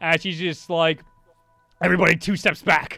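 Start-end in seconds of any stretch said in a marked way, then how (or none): 1.8-3.0 loud, quick, intense metallic masked voice. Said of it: "She immediately has a much more intense voice".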